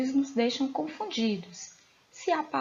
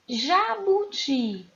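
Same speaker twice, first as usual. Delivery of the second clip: "Jabuti" slow and higher, each syllable drawn out; syllable-by-syllable demonstration; 6 semitones higher, much slower than usual. Shown as a demonstration. Teacher giving pupils the example "Jabuti" to find the tonic syllable, slowly sounded out. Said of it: "Qual é a sílaba tônica?".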